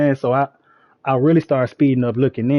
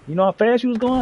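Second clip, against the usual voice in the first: mock cop voice; 9 semitones higher than usual. Cop questioning speed.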